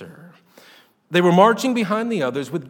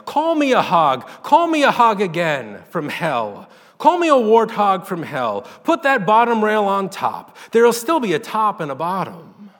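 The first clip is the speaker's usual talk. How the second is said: loud, higher furious call; rolling out loud; 4 semitones higher, 6 dB louder than usual. A narrator's reading. Woman daring God to insult her, loud. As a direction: hurl it across the pasture. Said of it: "her voice rolled out over the pasture".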